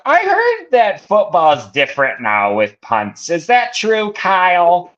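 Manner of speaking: put-on insanely nasal, heavy-voweled Buffalo accent, full of questions; mom's thick Buffalo accent. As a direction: do a high-pitched, puzzled mom with nasally Buffalo A's. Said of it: "She's got a thick Buffalo accent".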